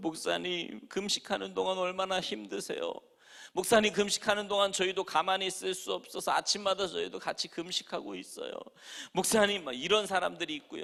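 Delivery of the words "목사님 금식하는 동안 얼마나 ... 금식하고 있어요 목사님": mock crying, tearful, pleading tone. Retelling churchgoers visiting a fasting pastor: imitating crying churchgoers. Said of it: "막 울면서요".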